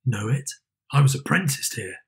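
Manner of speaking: a lightly voiced old Scrooge recognising his past.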